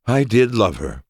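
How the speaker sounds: high, theatrical lovesick declaration; overplayed, high-pitched wistfulness; elaborately wistful. A narrator's reading. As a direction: declare your love with showy longing. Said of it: "Ali sighed elaborately".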